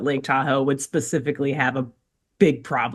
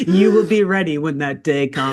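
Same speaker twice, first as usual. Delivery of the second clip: laughing prophecy. Pretend.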